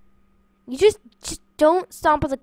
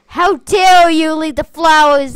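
mock scolding; 6 dB louder than usual. Scolding friend in game.

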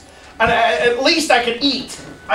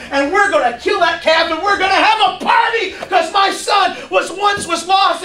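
higher, eager orders for a party; joyful father; 5 semitones higher than usual. Acted. A father telling servants to throw a feast, higher and thrilled. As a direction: call out to the servants, overjoyed.

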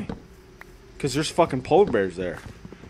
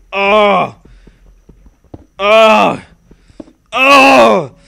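each oh higher and louder; rising oh; 5 semitones higher, 10 dB louder, much slower than usual. Pretend. Streamer hamming up pleasure, escalating. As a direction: build the moans up.

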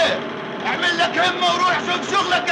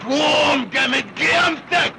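a barked order to move; foreman shouting. Acted. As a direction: boss yelling at the new worker to get up. Foreman yells at worker. (صراخ معلم على العامل)

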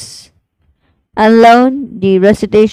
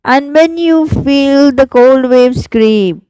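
airy whisper, higher, slowed; whispered line; 5 semitones higher than usual. Shown as a demonstration. Teacher whispering the goldfish verse to students. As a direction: whisper the cold waves creeping in. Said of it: "I'll repeat".

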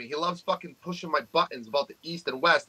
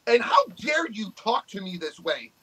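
imitated angry rant at an online troll, higher pitch, a cry in the voice, slowing down near the end; mock rant at troll; 4 semitones higher than usual. Telling off a YouTube troll who brags about curls, in a hammed-up angry rant. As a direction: tear into the troll in a mock tirade. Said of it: "I'm like".

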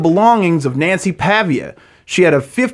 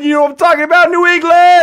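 high, loud Patriots hype shout; excited hype; 13 semitones higher, 4 dB louder, faster than usual. Real, not acted. Hyping the Patriots to his cohost, excited and loud. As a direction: pump up the room for New England.

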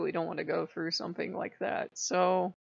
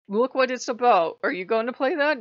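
louder, scolding father figure; stern imagined Odin; 4 semitones higher, 7 dB louder than usual. Retold or imitated. Odin forbidding her the war game, stern scolding. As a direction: scold like a strict parent. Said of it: "Odin would have said".

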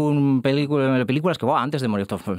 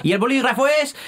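dramatic exclamation; 4 dB louder than usual. Acted. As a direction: announce it with a big theatrical flourish. Dramatic punchline.

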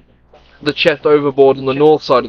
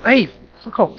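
angry yell; 8 semitones higher than usual. Real, not acted. Yelling at scratching cat.

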